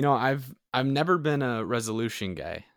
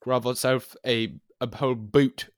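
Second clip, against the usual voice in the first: halting, muddled mock-British line; hesitant amateur British accent; attempted British accent. Shown as a demonstration. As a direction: improvise in a rough British accent. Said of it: "they all get kinda thrown together".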